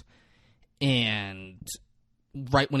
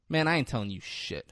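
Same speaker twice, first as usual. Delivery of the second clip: understated, unruffled delivery; calm refusal; 3 dB quieter than usual. Retold or imitated. Hugo answers the gunman, calm refusal. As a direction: keep it cool and level, giving nothing away. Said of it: "goes from shook to just so calm".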